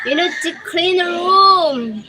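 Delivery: mock parent scolding; nagging parent. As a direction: tell a kid to tidy up. Parental nag.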